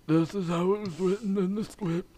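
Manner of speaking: talking through a teeth grill; wearing teeth grill. Real, not acted. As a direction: speak with a grill on your teeth. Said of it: "finish the ep like this".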